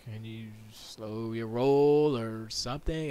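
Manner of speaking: slow, soothing request; a hint of calm husband soothing a screaming wife; calm and smooth. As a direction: defuse her gently, taking it slow. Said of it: "as calm and as smoothly as possible".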